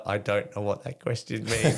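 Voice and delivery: quoting his mate through a laugh. Retold or imitated. Mate on the phone, laughing at the odd question. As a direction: let the laugh spill into the words.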